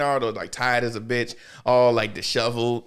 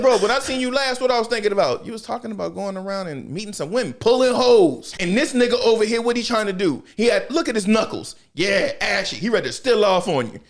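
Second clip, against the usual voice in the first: a bit high, hyped-up persuasion; lightly voiced schemer; 6 semitones higher than usual. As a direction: talk him into it, hyped and raised. Mizuki persuading Naruto.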